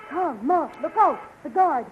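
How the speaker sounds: sharp high warning cry; alarmed shout. Acted. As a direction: yell it out in alarm. Warning of the approaching guard.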